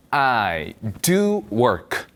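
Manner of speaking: extremely slow, "do" set apart; emphatic do. Shown as a demonstration. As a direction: drag it out, leaning on "do". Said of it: "난 정말로 일해". ("do"에 힘주어 아주 천천히)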